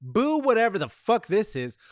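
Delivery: usual speaking voice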